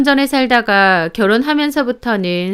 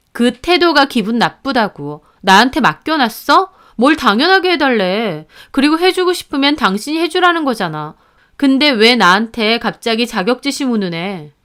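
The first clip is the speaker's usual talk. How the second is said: mildly heated, slightly raised retort; annoyed wife. Acted. Wife objecting to his sister's demands, mildly annoyed. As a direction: argue back with a touch of anger. Wife argues back at husband.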